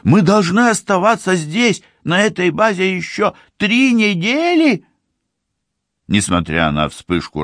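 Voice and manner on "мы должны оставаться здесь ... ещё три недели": put-on high, indignant girl's voice; incredulous young woman, pitched high. A narrator's reading. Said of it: "негодует Ливи".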